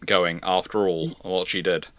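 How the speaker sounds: ordinary talk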